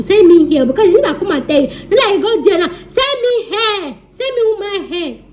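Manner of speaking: high, laughing playful begging; mock plea through laughter. Real, not acted.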